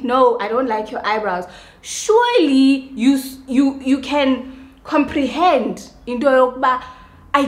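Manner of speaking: worked-up shouting rant; heated rant. Real, not acted. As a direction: push it out, indignant and loud. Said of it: "Sorry if I'm shouting".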